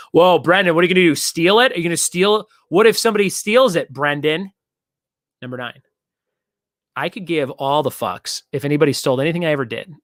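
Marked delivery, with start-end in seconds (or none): 0.1-4.5 teasing accusation, higher and louder; mock accusing. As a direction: playfully accuse Brendan. Mock accusing viewer of theft.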